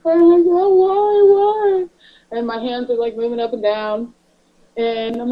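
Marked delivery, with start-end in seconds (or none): 0.0-1.9 high, loud mock panic; retold panic. Wife asking husband why not to move, panicked. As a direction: re-enact your alarmed cry, drawn upward.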